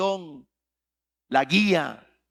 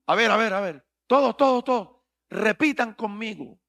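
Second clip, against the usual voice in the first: mocking prosperity preacher; 4 semitones higher, 4 dB louder than usual. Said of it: "me choca un poquito".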